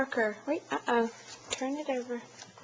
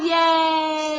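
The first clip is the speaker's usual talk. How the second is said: excited cheer; 7 semitones higher, 7 dB louder than usual. Real, not acted. Cheering toddler.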